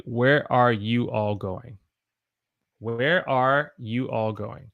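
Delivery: slow full form. Shown as a demonstration. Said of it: "I wanna say".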